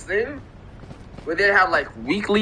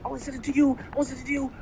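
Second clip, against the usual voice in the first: higher, mock pleading voice; ex's denial; 9 semitones higher, 5 dB quieter, faster than usual. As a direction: imitate her protesting. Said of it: "She's like".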